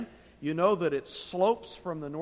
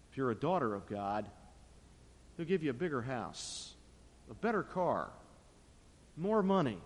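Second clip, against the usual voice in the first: Satan whispering; 5 semitones lower than usual. Retold or imitated. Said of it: "never have Satan whisper into your ear".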